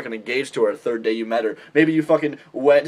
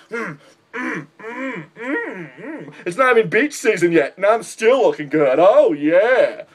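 mock self-admiring poser; 4 semitones higher, slower than usual. Mocking a shirtless poser admiring himself.

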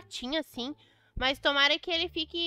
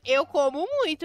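ordinary delivery

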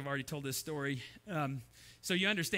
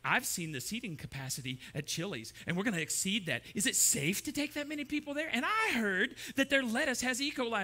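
mildly fretful, climbing higher as it goes; anxious worrier; 5 semitones higher, 3 dB louder than usual. Acted. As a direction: worry aloud, rising into alarm. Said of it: "And the blue person goes".

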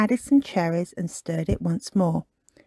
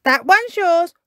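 panting; 8 semitones higher, 4 dB louder than usual. Acted. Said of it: "he panted".

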